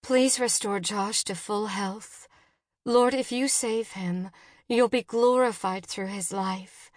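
earnest, pleading prayer; a mother's subdued, anxious prayer; spoken prayer. A narrator's reading. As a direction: implore God gently for her son. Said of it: "Jen prayed out loud".

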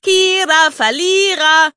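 put-on high, loud taunting girl's voice; a cheeky young girl jeering from downstairs; high-pitched child mocking her brother; shrill little girl. A narrator's reading. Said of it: "Lisas schrille Stimme".

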